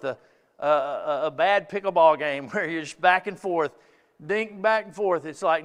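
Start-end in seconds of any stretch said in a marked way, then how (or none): none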